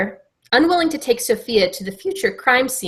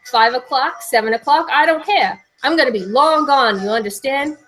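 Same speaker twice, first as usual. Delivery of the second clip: higher-pitched defiant tirade; acted yelling; 4 semitones higher than usual. Richie defies debt caller, ranting with raised pitch. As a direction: rant on in a New York accent. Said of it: "Richie started to yell".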